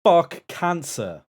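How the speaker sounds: booming slow Greg Davies voice; loud, drawn-out Greg Davies; Greg Davies impression. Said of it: "his best Greg Davis impression".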